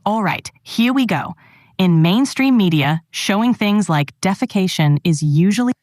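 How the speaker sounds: mild attempt at an Aussie accent; Australian accent. Shown as a demonstration. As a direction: have another go at sounding Australian. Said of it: "give that Aussie accent another go".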